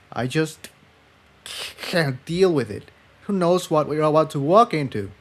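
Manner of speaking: a hint of despair; Jigsaw, pained.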